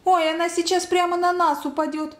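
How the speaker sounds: high-pitched, mildly scared voice; frightened half-whisper. A narrator's reading. Boy fearing she will fall, high anxious voice. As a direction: fret in a high voice. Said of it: "прошептал Петька".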